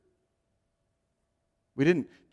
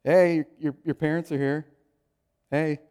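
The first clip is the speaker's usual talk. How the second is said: put-on kids calling out; 4 semitones higher, 5 dB louder than usual. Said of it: "the kids are like this".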